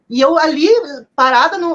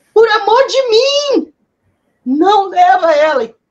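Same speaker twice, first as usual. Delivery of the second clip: acted high, drawn-out, anguished, pleading, despairing scream; 5 semitones higher, 4 dB louder than usual. Retelling what she screamed at the end, retelling her own scream. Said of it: "eu gritei assim".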